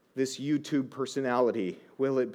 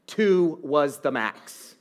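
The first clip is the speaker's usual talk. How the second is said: rueful sigh; much slower than usual. Retold or imitated. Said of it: "I go".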